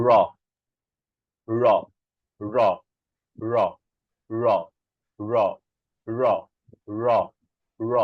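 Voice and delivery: র as ড়, tongue curled back to the palate; isolated র, hard retroflex flap, spaced out. Shown as a demonstration. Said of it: "সেটা চলে যায় আরেকটু একেবারে প্রায় তালুর কাছাকাছি".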